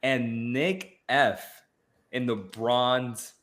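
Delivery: slow, spaced-out roll call of winners; awards announcer. Acted. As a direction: read out each name slowly with suspense pauses. Announces third-place winners.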